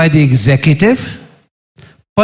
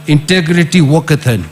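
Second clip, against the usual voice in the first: ordinary talk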